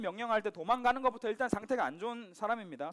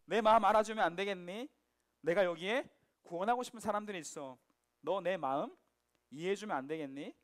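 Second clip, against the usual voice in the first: tender pleading. Acted. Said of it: "말씀하시는 거란".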